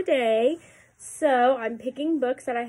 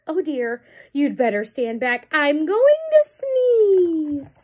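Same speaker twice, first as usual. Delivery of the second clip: elephant's warning; 3 semitones higher, 6 dB louder, slower than usual. Acted. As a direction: warn everyone to stand back. Reading aloud to children.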